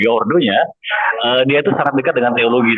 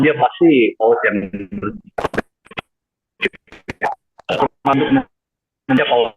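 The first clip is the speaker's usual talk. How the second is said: choppy bad connection audio; words dropping out on a bad line; voice cutting out. Real, not acted. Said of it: "Tino, suaramu putus-putus".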